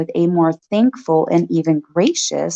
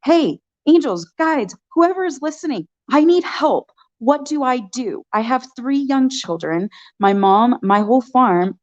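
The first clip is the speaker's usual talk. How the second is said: higher, pleading prayer to the angels; desperate plea; 4 semitones higher than usual. Retold or imitated. A mother pleading with angels for help, higher and desperate. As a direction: beg the universe for help, near panic. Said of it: "putting it out into the universe".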